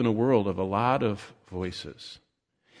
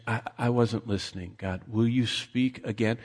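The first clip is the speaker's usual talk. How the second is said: soft, humbly voiced request; quiet acted prayer; 2 semitones lower, 6 dB quieter than usual. Inattentive reader asking God to repeat, quiet acted prayer. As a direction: drop the volume to pray.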